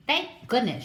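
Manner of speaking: a glad, relieved outburst; hornbill's grateful cry. Acted. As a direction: cry out in relief as the mother bird. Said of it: "she cried".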